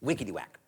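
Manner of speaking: "wickety whack" as a chop; axe chop sound. Shown as a demonstration. Storyteller showing children the axe sound, demonstrating. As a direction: imitate an axe hitting a tree. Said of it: "it makes a very special sound".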